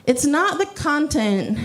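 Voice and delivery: ordinary delivery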